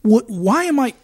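high, loud panicked rant; panicked inner voice. Retold or imitated. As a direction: spill the panic out loud, near shouting. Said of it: "I was like".

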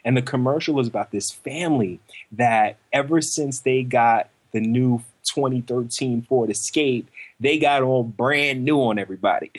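ordinary delivery

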